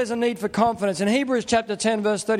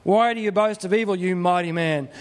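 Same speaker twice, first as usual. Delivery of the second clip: a light taunt, falling off on "mighty man"; mildly sarcastic. Acted. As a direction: have a bit of a go at a boaster. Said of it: "It's a bit sarcastic".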